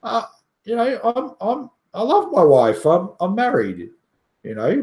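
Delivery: put-on high, pleading good-boy voice, pitched well up; a hammed-up squeaky "I'm married" plea; mock innocent protest. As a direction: play the flustered faithful husband fending her off. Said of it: "I'm like".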